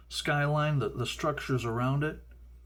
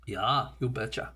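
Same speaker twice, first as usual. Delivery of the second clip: playful Minnesota "you betcha" voice; Minnesota accent; 2 semitones lower than usual. Acted. Joking about ten thousand lakes, Minnesota accent. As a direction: lean into the Minnesota vowels. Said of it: "Minnesota accent coming in there".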